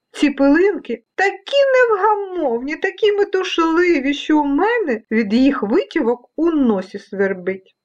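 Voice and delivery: high-pitched storybook complaint; complaining cactus. Acted. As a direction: complain as the itchy-nosed cactus. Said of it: "поскаржився кактус".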